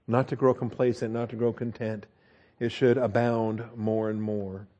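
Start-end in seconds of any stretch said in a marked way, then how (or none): 2.6-4.7 "should" leaned on, the whole line drawn out slowly; preacher urging the flock, slowly stressing "should". Acted. Stressing "should" to the congregation, slow and deliberate. Slow emphatic sermon refrain.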